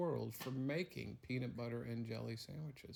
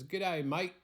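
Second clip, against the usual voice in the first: higher, louder Australian G'day; Aussie greeting; 6 semitones higher, 6 dB louder than usual. Acted. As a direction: hail him like a friendly Australian local.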